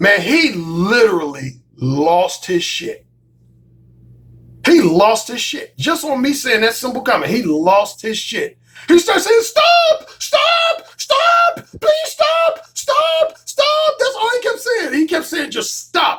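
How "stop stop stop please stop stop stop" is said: very high, very slow, drawn-out emotional breakdown screeching. Retelling what a man kept saying after a comment, imitating his screeching, emotional voice. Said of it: "in this highly screeching, emotional tone of voice".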